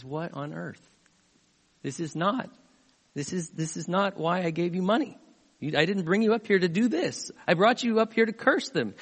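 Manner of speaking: retold king's complaint, starting hushed and building; mildly acted exasperation, climbing as it goes; indignant protest. Voices king protesting at hired prophet.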